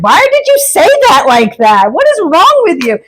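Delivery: high, hammed-up angry old man; grumpy old man. Acting out the spirit guide's voice on request, grumpy scolding. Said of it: "An old grumpy man".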